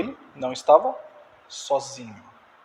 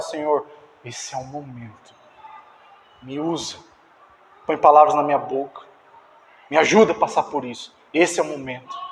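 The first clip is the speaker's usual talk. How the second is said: earnest prayer; 4 semitones lower than usual. Shown as a demonstration. Sample prayer before a challenge.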